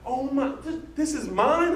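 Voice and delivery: high-pitched imitation of her crying shock; retold tearful disbelief. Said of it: "crying, like she's shaking".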